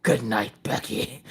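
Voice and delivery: soft, low, trailing goodnight; small hushed sign-off; meek goodnight. Retold or imitated. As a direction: let it fade almost to nothing.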